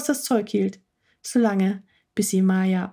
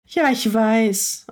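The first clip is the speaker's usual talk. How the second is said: dejected; 3 dB louder, much slower than usual. Acted. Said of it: "antwortete Maya etwas niedergeschlagen".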